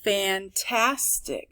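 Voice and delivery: Fantastic slowly parted into fan, tas, tic; three measured beats in Fantastic; syllable by syllable. Shown as a demonstration. Teacher reading from the board, Fantastic broken up. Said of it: "look at my syllable train".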